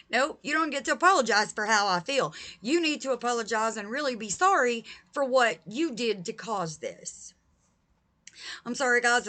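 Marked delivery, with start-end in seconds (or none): 0.1-7.3 heated. Real, not acted. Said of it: "if I sound a little heated".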